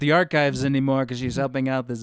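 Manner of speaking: hammed-up president insulting a woman; Trump impression.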